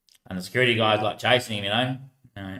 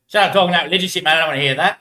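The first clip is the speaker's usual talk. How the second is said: retold angry outburst, higher and louder; angry retort; 5 semitones higher, 6 dB louder, faster than usual. Swearing man cuts off religious talk, angry imitation. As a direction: imitate a man telling someone off.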